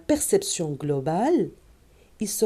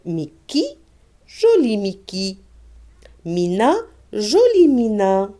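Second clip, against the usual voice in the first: reading demo; 2 semitones higher, 3 dB louder than usual. Shown as a demonstration. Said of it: "On passe à, à la phrase".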